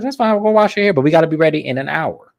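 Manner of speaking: a high, hammed-up castmate voice; imitating Angie. Angie hurrying Meredith, high mock-breezy imitation. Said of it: "And Angie's like".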